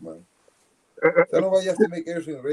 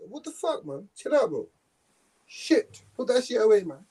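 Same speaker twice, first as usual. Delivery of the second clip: higher-pitched mock American accent; American accent impression; 5 semitones higher, 4 dB quieter, slower than usual. Man telling someone to chill out, mock American accent. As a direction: play at being an American. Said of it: "That was my American accent impression".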